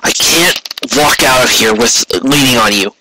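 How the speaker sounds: hurt whisper, near breaking; strained whisper. Acted. Wounded captain refuses Rainbow's help, whispered and strained. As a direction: push the words out through pain.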